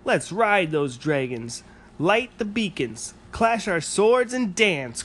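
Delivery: high, slow, eager call; rally them to adventure; excited cry. Acted. Rory eagerly urges the dragon, high excited cry. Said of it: "cried Rory".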